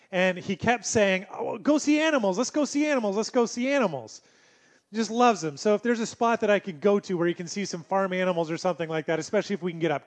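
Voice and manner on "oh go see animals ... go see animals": put-on toddler voice. Father quoting toddler son.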